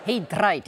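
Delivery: He Dreit practised with a rolled R. Shown as a demonstration. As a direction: try rolling the R in Dreit. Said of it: "ich übe das schon mal".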